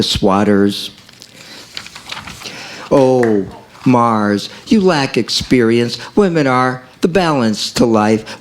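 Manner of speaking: poem reading. Acted. Poet reciting I Am From Mars, spoken word.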